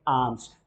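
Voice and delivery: आम्स said like mango aam plus s; आम्स with a long open a, no L. Shown as a demonstration. Teacher shows alms sounds like आम्स. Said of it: "क्या है ये?".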